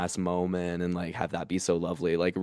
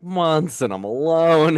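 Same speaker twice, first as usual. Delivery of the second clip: laughing it out, slower; 7 semitones higher, 6 dB louder, slower than usual. Real, not acted. Comedian laughing about lonely months on tour. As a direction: chuckle through the loneliness.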